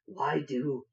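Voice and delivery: slow orc sneer. Acted. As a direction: talk down to pale fleshes. Orc answers.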